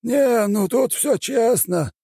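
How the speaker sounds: high, thin elder voice, slow and musing; a strange high old shaman weighing the spell. A narrator's reading.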